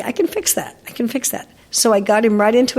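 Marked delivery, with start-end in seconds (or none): 0.0-0.8 much higher, punchy "can" in "I can fix that"; confident promise. Retold or imitated. Trainer promising her sister she can fix the dog, emphatic. 0.9-1.5 calm the repeat down; soft reassurance. Retold or imitated. Trainer quietly reassuring her sister after the promise.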